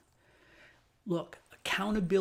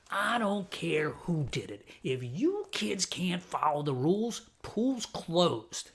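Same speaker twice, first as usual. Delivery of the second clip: raspy lady scolding; slower than usual. Retold or imitated. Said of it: "gravelly, raspy voice".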